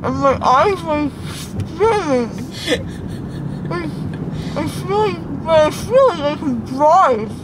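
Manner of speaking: groggy after anesthesia. Real, not acted. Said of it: "She said she feels so drunk".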